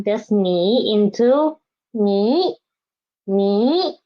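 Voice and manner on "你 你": 你 with a rising second tone. Shown as a demonstration. Teacher changing this one to second tone, rising 你. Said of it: "change it to the second tone".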